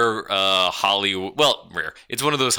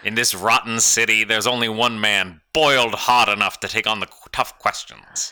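hard-boiled private eye voice; noir detective. Acted. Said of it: "cut off the voice though".

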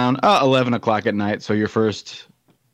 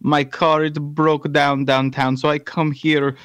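put-on Bosnian accent. Stranded visitor asking for Daryl and a ride, Bosnian accent. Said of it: "do a Bosnian accent".

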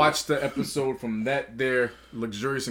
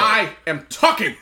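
slow, raised, emphatic announcement; emphatic declaration; 4 semitones higher, 4 dB louder, slower than usual. Retold or imitated. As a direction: lay down each word slowly, higher in pitch. Acting out the commanding speech.

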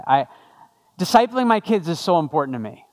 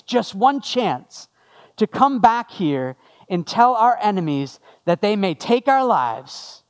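rousing battle speech, slow and deliberate; William Wallace; slower than usual. Acted. Scottish leader rallying his army before battle, slow dramatic speech without the accent. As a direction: draw out the key words like a film hero rallying troops. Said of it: "this is a quote from William Wallace".

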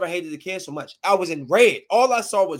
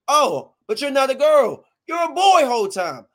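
higher, indignant callout; raised, accusing retelling; retold going off; 4 semitones higher, 3 dB louder than usual. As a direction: go off on the kid, mildly. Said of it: "I went off".

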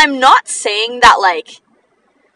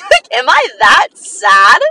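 slow, loud, laughing question; disbelieving laugh at herself; laughing disbelief; 6 dB louder, slower than usual. Retold or imitated. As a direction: crack up while asking it. Laughing at crying therapist.

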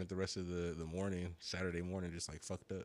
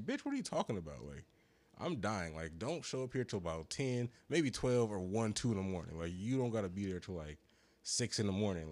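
retold exasperation; 2 semitones higher, 4 dB louder than usual. Retells telling her off by phone.

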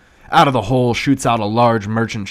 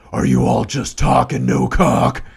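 a touch higher and louder, lightly demonic taunt; 5 semitones higher, 7 dB louder than usual. Acted. Possessed boy taunting the celebrities, mild demonic taunt. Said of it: "says in a demonic voice".

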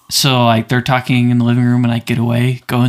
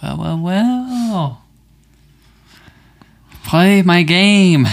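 slow, sinister villain; drawn-out creepy game master; 5 semitones higher, much slower than usual. Pretend. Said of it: "let me".

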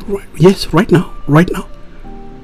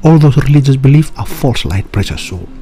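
doomsday street preacher. Acted.

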